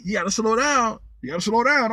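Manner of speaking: imitating the cop. A cop at the window nags the driver, in a mock scold. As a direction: nag like a cop repeating himself. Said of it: "he's like".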